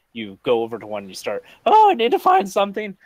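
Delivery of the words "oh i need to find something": high, frantic, breathless search; frantic panic. Acted. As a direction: panic as you hunt for herbs. Frantic character searching herbs.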